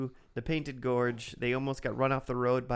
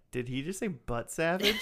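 retold disbelief; 4 semitones higher than usual. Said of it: "all of us in the room were like".

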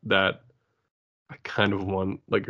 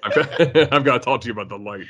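De Niro impression; faster than usual. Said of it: "voiced by, like, Robert De Niro".

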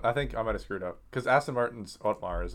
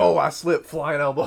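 mock innocent excuse; 4 semitones higher, 5 dB louder than usual. Zach faking an accident.

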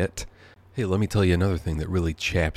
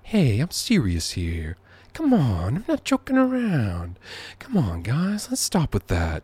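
Biden voice swooping much higher on "Come on"; imitating Joe Biden scolding the guys, pitch soaring; Joe Biden impression; 6 semitones higher, slower than usual. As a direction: plead like Joe Biden, climbing up high. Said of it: "doing Joe Biden".

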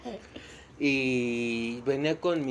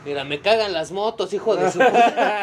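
laughing; 7 semitones higher, 11 dB louder than usual. Real, not acted. Mock outburst, laughing.

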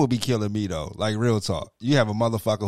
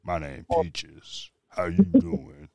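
mock sexy introduction; 5 semitones higher, much slower than usual. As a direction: try and fail to sound sexy, very slowly. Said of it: "can't even make that sound sexy".

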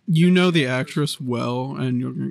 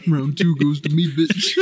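gloating laugh; 7 dB louder than usual. Real, not acted. Gloating over winning round.

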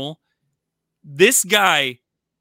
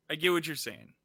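softer, conceding repeat; quieter, resigned; 6 dB quieter than usual. Real, not acted. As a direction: let it go, softer. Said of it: "repeated quieter".

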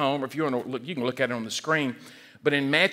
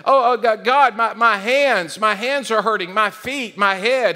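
hammed-up cry of pain, high and loud; mock wailing over each hurt, pitched up; 6 semitones higher, 6 dB louder than usual. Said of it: "he wasn't crying out for his own self".

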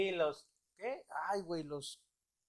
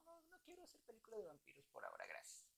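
John Travolta; 10 semitones higher, 16 dB quieter, faster than usual. Retold or imitated. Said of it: "que dio, porque no".

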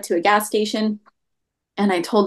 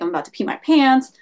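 higher-pitched imitation of upset bystander; lightly acted distress, raised pitch; retold upset; 6 semitones higher than usual. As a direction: quote an upset person, pitch lifted. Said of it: "really upset".

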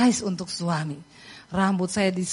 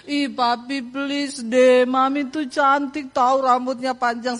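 imitated childish whine, lightly done; crying little child; 2 semitones higher, slower than usual. Youngest daughter pleading with daddy for mum, whining. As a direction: plead in a drawn-out mock whine. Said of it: "Anak saya yang nangis, yang kecil".

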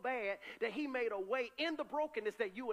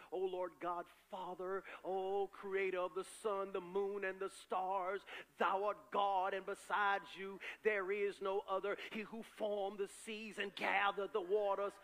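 slow, pompous, churchy prayer voice; a churchgoer praying fancy words that don't move God; mock formal prayer; slower than usual. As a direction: ham up a flowery King James prayer. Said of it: "You ain't getting nowhere".

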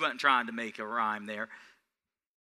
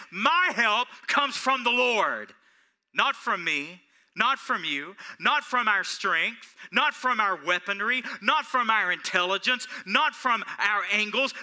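higher, louder, slow declaration; with confidence; 6 semitones higher, 4 dB louder than usual. Acted. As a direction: proclaim it boldly to the church. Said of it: "say with confidence".

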